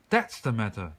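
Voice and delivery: loud gruff shout. A narrator's reading. Chief of police to the bear, loud shout. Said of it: "shouted the chief of police".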